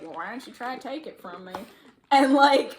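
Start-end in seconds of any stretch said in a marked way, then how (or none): 0.0-1.5 retold taunt. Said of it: "he was like".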